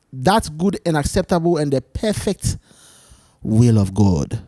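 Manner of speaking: reading Romans twelve two to viewers, solemn; reading scripture. Acted. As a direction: read the verse like a preacher. Reads scripture aloud.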